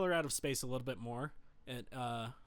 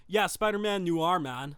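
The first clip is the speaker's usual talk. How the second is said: put-on loud, higher edgy teen; Californian teenager voice; 4 semitones higher, 8 dB louder, slower than usual. Edgy fourteen-year-old approving of Spider-Man Noir, California teenager voice. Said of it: "my teenager voice is just a kid from California".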